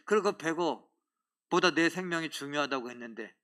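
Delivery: normal talking voice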